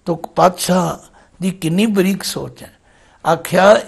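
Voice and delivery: normal talking voice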